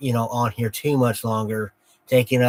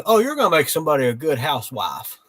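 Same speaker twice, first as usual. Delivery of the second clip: quoting grandpa through a laugh; 3 semitones higher, 4 dB louder, faster than usual. Retold or imitated. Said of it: "he always goes".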